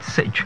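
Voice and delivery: sitch breathed with no voice, just the ending sound; whispered sitch. Shown as a demonstration. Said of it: "So it's E there".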